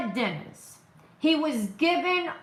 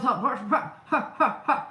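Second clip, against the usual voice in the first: mock laugh. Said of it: "where she goes".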